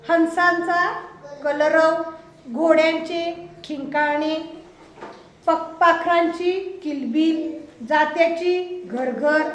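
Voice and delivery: measured classroom dictation, phrase by phrase; slowly, evenly, with gaps for pupils to follow; slow list recitation. Real, not acted. Teacher reads out sound words to the class, slow recitation.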